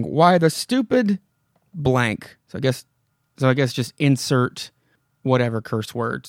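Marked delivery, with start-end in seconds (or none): 0.0-2.4 Wilma's outburst. Retold or imitated. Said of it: "We end with Wilma saying".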